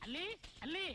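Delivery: calling a name into the house. Acted. Father calling for his daughter inside, calling out.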